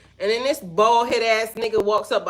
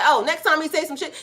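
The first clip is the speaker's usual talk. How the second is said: lightly voiced store worker, higher pitch; imitated indignant woman; 6 semitones higher than usual. Store worker siding with her against the man, mock indignant.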